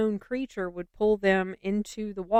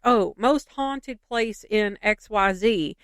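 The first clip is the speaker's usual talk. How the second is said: mocking hype; 2 semitones higher, slower than usual. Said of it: "it's like".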